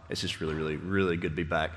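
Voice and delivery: cracking, hoarse sick voice. Real, not acted. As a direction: voice breaking from a cold. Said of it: "Forgive my really cracking voice".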